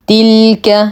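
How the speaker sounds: تلك with the ل lingered on before the ك; held ل. Shown as a demonstration. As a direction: hold the l in تلك, measured and chanted. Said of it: "نصبر على اللام". (الصبر على لام تلك)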